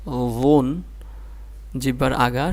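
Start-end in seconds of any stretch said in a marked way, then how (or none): 0.1-0.8 লুন begun softly, tongue tip on the upper front teeth; soft consonant. Shown as a demonstration. Teacher showing another soft letter, soft start to লুন. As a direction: ease into the first sound of লুন, tongue at the teeth. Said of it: "এটাও নরম করে".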